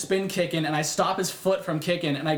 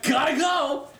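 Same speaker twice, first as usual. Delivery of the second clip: high squeaky hasty gotta go; panicked exit; 9 semitones higher, slower than usual. Retold or imitated. Man fleeing after learning her age, squeaky panic. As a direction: bail out in a squeak.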